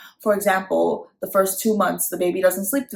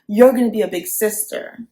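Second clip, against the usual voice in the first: louder, upbeat cheering; excited big sister cheer; 2 semitones higher, 6 dB louder than usual. Shown as a demonstration. Mom excitedly telling her toddler about the baby. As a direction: sell it as a thrill. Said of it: "I would be like".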